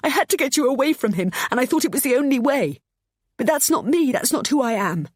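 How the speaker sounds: high, loud sobbing plea; mother sobbing out her reasons. A narrator's reading. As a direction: sob through it. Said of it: "she sobbed".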